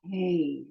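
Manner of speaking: Hey, an open breathy h from the throat. Shown as a demonstration. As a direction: let the air flow out on Hey. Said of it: "as if it's open and breathing".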